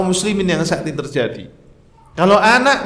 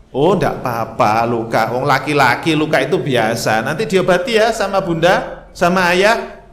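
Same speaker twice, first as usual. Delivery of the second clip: calm reassuring parent; 2 semitones lower than usual. Retold or imitated. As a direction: gently brush off the scrape so the child settles. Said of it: "Tenang kan anak?".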